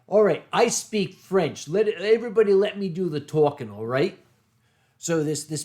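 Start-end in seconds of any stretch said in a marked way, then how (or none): 0.1-4.2 put-on Boston accent. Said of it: "So Dick said".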